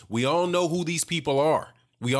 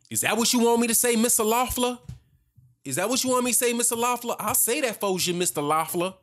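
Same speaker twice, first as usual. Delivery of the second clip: higher, taunting sarcasm; mock him like a yes-man eager to please; sarcastic mockery; 8 semitones higher than usual. Real, not acted. Commentator taunts the promoter, mock-eager and much higher. Mocking offer to promoter Loeffler.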